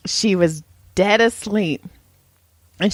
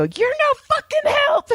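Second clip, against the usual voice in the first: much higher, hammed-up huffy retort; mock annoyed. Sleepy girlfriend huffing at her ex-boyfriend in bed, high mock outrage. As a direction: snap at him like he's useless.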